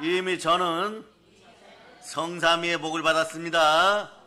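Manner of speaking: loud, slow, proclaimed shout.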